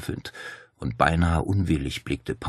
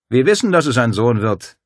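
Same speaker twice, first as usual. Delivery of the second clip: firm, louder assertion; assuring; 6 semitones higher, 8 dB louder than usual. A narrator's reading. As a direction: state it with full conviction. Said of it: "versicherte Dario".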